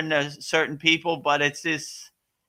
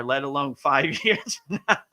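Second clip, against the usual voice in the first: laughing. Real, not acted. Joking answer, laughs while saying it.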